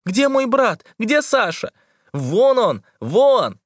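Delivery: high frantic calls over water; calling out. A narrator's reading. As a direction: shout and point across the waves. Calling out in the sea. (тревожные выкрики)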